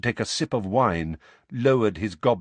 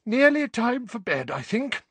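yawning; 3 dB louder than usual. A narrator's reading. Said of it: "with a yawn".

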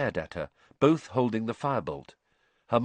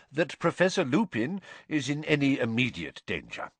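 higher, lightly cheerful assurance; cheerful, raised voice; 6 semitones higher than usual. A narrator's reading. Headmaster ending two professors' squabble, cheerfully. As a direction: carry on cheerfully over the squabble. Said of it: "cheerful but slightly raised voice".

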